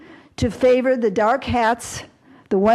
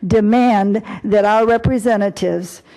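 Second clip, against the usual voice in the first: a formal resolution read aloud with weight; formal proclamation. Acted. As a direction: proclaim it like an official decree. Reads out resolution text.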